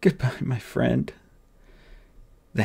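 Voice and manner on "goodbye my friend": slow, softer, through tears; boy bidding his dead friend farewell; tearful goodbye. Acted. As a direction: let the grief slow each word. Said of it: "sobbed the boy".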